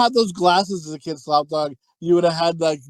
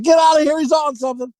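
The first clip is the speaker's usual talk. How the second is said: mock shout; 9 semitones higher, faster than usual. Retelling a movie guy telling others to flee, shouting. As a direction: yell it, shooing them out. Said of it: "he's just like".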